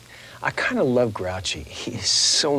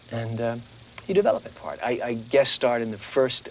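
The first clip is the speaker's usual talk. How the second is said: normal talking voice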